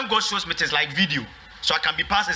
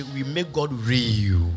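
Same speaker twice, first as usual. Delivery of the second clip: slow, drawn-out, lower-pitched call to repeat; slow declaration; 4 semitones lower, much slower than usual. Real, not acted. Pastor leading the church in a declaration, slow and solemn. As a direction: stretch the words for the congregation to echo.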